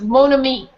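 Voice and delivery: "Mon ami" said the French way, nasal mon, stress on the end; French pronunciation. Shown as a demonstration. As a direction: model "Mon ami" for the class to repeat. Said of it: "Can you say it?".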